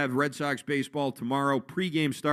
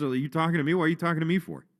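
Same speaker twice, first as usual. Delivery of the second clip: calm tone, faster pace; 3 semitones higher than usual. Describing a confrontation, the commentator retells how Wilson Contreras calmly asked his question. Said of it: "Contreras kind of calmly asks".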